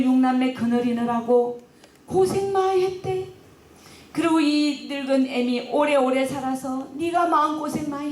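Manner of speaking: lightly voiced dying mother, pitch rising; frail old mother. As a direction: bless the son as if for the last time. Dying mother blesses eldest son.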